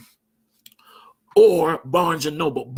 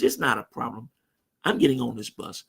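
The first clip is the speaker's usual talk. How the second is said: calm and at peace; 4 semitones lower, 4 dB quieter than usual. Retold or imitated. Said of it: "And I just was calm".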